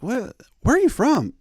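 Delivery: high, loud shocked question. Retold or imitated. Imagined traveller to the pilot, loud shock. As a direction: gape at the stranger's answer. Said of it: "You'd be like".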